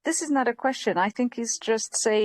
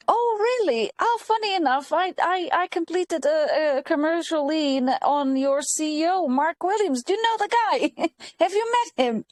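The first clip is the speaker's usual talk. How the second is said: high-pitched mock-innocent small talk; feigned casual surprise; 4 semitones higher than usual. Stylist needling council clients about their CEO, mock-innocent. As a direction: act out a pointed question as if innocent. Acts out the remark she held back.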